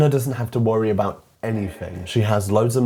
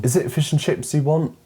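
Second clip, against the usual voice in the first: hammed-up British shopkeeper, higher pitched; cranked-up British accent; 6 semitones higher than usual. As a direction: lay the British accent on thick. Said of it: "crank up their accents to eleven".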